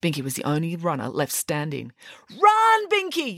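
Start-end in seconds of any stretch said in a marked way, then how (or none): 2.3-3.4 high, urgent cheer; yelling. Acted. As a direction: cry out to urge a runner on. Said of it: "yelled Friday".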